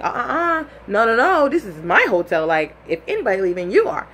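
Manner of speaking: put-on kicked-out girlfriend snapping back at her boyfriend. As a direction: put her foot down, sharp. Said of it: "So I snap back into it".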